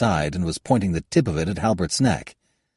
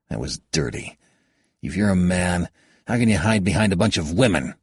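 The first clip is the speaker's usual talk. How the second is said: frustrated. Acted. Halbert held, frustrated.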